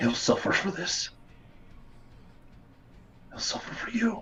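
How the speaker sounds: barely-there, very soft, light whisper. Playing a character laying someone back down after a forehead kiss, light whisper. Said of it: "I'll just really lightly whisper that".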